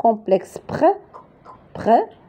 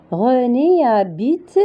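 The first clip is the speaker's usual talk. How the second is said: slow model reading; 4 semitones higher, slower than usual. Shown as a demonstration.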